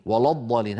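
ولا الضالين with the lam of ولا darkened; wrong heavy lam. Shown as a demonstration. Teacher repeating the wrong form for students. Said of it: "هذا لا يصح أبدا".

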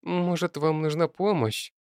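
butter her mother up gently; soft and polite. Acted. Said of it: "Голос её стал таким мягким и вежливым".

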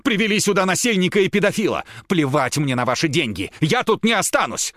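high, loud, fast outraged rant; hysterical yelling. Acted. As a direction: scream it all out. Tatiana screaming in outrage.

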